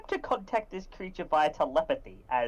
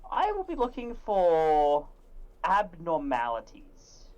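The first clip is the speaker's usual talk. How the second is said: slow, drawn-out noir narration; 1930s noir style. Acted. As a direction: muse to yourself like a 1930s gumshoe. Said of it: "in the nineteen thirties noir style".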